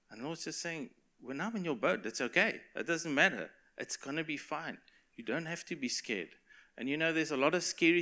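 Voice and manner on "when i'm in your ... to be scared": acted calm, comforting voice; gentle reassurance. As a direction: soothe a frightened friend, softening toward the end. The Lord reassuring frightened disciples, acted.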